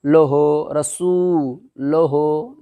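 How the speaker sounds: लोहो said with o instead of u; wrong majhool reading. Shown as a demonstration. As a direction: demonstrate the wrong लोहो with an o vowel. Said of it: "ये है मा- मजहूल".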